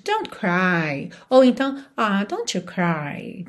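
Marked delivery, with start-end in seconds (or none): 1.9-3.4 soft, slow and comforting; softly soothing a friend; tender consoling. Shown as a demonstration. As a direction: console a crying friend gently. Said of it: "Tipo, quase, "It's breaking my heart".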